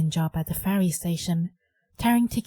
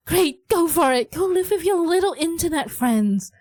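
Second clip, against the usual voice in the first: pitched-up sneering jab; sarcastic retort; 9 semitones higher than usual. Acted. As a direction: scoff at the daughter's plan.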